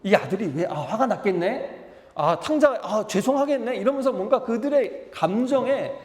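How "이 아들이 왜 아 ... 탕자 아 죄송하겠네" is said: empathetic reader. Shown as a demonstration. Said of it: "감정을 이입하시고 읽으면서 감정을 느끼세요".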